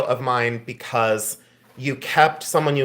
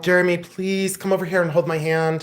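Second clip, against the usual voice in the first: playful pleading; 4 semitones higher than usual. Pretend. Playfully begs Jeremy for support.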